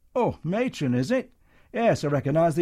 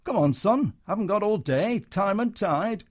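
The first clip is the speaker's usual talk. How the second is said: showman brush-off; 5 semitones higher, 4 dB louder than usual. Acted. Comedian brushing soldier off.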